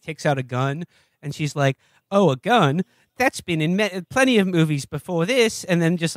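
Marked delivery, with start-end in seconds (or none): 2.1-5.7 a light Australian accent, mimicking the actress; mock Australian lilt on the quote. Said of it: "I'm doing an Australian accent now".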